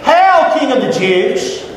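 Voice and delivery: high mocking call of hail, then a slow sneer. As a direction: hail him like a jeering soldier. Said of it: "they dressed him up as a king".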